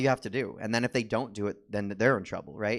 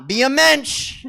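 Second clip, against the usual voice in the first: shouted, high Yiddish Santa; loud, hammed-up Yiddish Santa; 12 semitones higher, 12 dB louder, slower than usual. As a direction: exhort the child as a Yiddish-sounding Santa. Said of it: "a decidedly Yiddish Santa".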